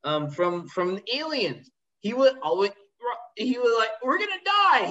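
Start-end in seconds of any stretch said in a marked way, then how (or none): 4.0-4.8 much higher, loud and committed; loud actor line. Retold or imitated. Imitating an over-the-top actor on set, loud mock yell. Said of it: "He was so loud".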